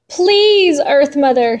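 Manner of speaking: high, earnest plea; begging. Acted. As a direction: beg her, voice lifting. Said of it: "she begged".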